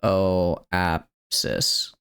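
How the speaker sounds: Apoapsis drawn out slowly; careful slow Apoapsis; slow careful try. Shown as a demonstration. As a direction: sound out Apoapsis syllable by syllable. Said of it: "the first syllable is just ah".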